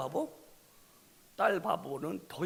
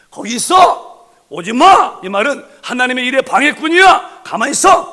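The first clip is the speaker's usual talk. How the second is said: outraged patriarch bellowing stay back; furious shout; 7 semitones higher, 20 dB louder than usual. Acted. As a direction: drive the servants back with a roar. Abraham shouts servants away.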